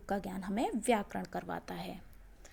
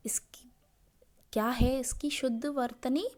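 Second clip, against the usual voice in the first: normal talking voice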